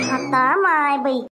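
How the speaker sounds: very slow stretched oh my; drawn-out exclamation. Acted. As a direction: drag it out in mock shock. Shocked by new dress.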